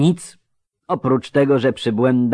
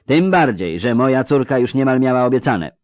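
mildly bristling grating character; a lightly voiced indignant retort; 9 semitones higher, 12 dB louder than usual. A narrator's reading. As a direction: declaim with a touch of indignation. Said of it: "zaperzył się zgrzytliwy".

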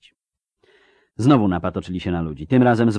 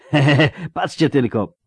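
acted laughing cry, pitched high; roaring laughter; 7 semitones higher, 4 dB louder than usual. A narrator's reading. Girl seeing her mistake with the armour, laughing. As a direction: laugh out loud, calling the others. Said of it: "zaryczała śmiechem".

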